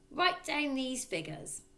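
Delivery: father. A narrator's reading. Father dictating figures.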